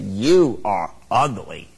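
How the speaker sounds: slow, deliberate parrot voice; the parrot insulting the lady outside the pet shop, slow and deliberate. Acted. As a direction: lay the insult down slowly like a smug bird.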